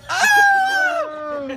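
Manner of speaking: high loud startled oh; surprised shout. Real, not acted. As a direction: yelp it in surprise. Reacting to the ice.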